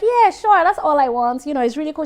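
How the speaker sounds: hammed-up happy shopper at the till; mock eager customer. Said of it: "And you're like".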